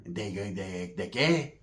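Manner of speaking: very low, soft stammering imitation; crazy paisa. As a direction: stammer it low under your breath. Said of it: "he sounds all crazy".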